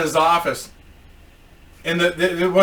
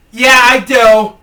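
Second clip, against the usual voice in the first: slow, loud, higher reply; raised, drawn-out customer voice; mock customer voice; 6 semitones higher, 10 dB louder, slower than usual. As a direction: drag it out loudly as a mocked customer.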